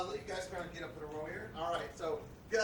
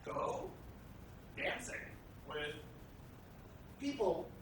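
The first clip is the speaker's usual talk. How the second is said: one word at a time, halting; staccato; much slower than usual. Real, not acted. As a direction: drop each word separately, with pauses. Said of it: "one word at a time".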